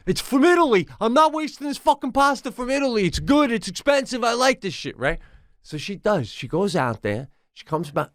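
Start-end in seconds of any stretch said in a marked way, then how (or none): 0.1-5.0 imitating insistent wife. Imitating his wife insisting on saving the Italian pasta. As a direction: insist like the wife, refusing to waste it. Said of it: "she's going".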